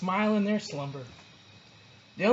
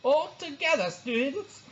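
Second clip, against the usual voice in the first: higher, slow drawling teacher voice; sleepy teacher; 8 semitones higher, slower than usual. A narrator's reading. Teacher giving sloths a lesson, lazy drawl. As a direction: drag the words out lazily.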